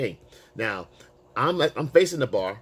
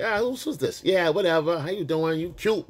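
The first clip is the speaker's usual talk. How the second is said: mimicking her attitude, higher; mock offhand, pitched-up brush-off; dismissive attitude; 6 semitones higher than usual. Woman sizing him up at the bar, mock dismissive. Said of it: "that's the attitude she had".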